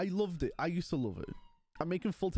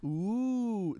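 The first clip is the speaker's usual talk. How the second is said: long, higher-pitched "ooh"; playful "ooh"; 4 semitones higher, 3 dB louder than usual. Pretend. Streamer telling chat today's game, playful ooh. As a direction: draw out a swooping ooh.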